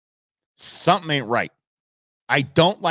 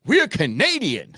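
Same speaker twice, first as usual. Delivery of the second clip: slow, higher mock Asian accent; imitated Asian accent; 6 semitones higher, 3 dB louder, slower than usual. Neighbor says where he is from, imitated Asian accent. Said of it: "thick Asian accent".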